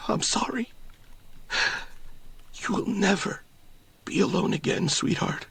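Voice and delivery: hushed, partly unvoiced father's whisper; the father whispers comfort into his daughter's ear. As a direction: murmur it into her ear. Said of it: "he whispers into her ear".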